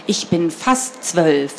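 slow, drawn-out statement of age; lightly voiced superior girl, very slow; pointed boast. A narrator's reading. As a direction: stretch it out to pull rank. Older girl outdoes the boy's age.

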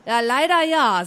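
mildly grim, grudging yes; a touch of sourness; grim reply. A narrator's reading. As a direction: admit it with annoyance. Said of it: "sagte Frieda grimmig".

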